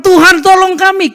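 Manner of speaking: high, loud desperate plea; crying out to God. Acted. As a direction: beg God for help in panic. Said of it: "berserulah mereka kepada Tuhan".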